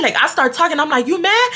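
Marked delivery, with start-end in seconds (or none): 1.1-1.5 taunting. Retold or imitated. Taunting classmate again.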